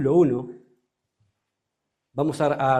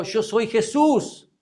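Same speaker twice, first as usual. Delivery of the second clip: slow solemn; 5 semitones higher, much slower than usual. Acted. Jesus answers Saulo.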